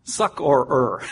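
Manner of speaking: "succorer" said slowly as SUCK-or-er; extra final syllable. Shown as a demonstration. Preacher clarifying not succor, "succorer" slowly with every syllable separate. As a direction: sound out both R endings in "succorer". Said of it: "Not succor, but".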